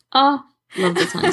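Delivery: gushing. Real, not acted. Gushing over favourite podfic.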